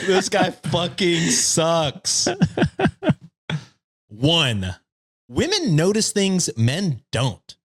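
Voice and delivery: smug, preachy internet neckbeard. Pretend. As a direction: read it like a smug forum poster. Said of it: "the neckbeard voice".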